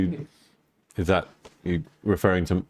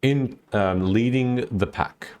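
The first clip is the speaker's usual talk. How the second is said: slow, measured scene setting; game master narration; slower than usual. Acted. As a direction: set the scene slowly for the players. Game master describing the travel.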